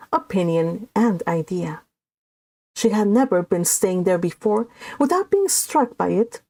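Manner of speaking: steady read-aloud narration; story narration. A narrator's reading. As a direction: read the novel to the group, measured and even. Reads the novel aloud.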